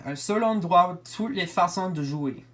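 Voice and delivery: French read with an American accent; foreign accent in french. Real, not acted. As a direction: say the French slogan with an English-speaking accent. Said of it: "Sorry if my French is not good".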